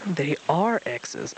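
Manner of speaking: slow, drawn-out impatient hoot; a slow, patient-sounding owl. Acted. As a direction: lose patience slowly. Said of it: "Owl hooted".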